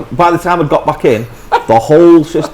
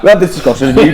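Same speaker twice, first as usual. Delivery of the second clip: laughing retort; 4 dB louder, faster than usual. Retold or imitated. Retold wife's reply.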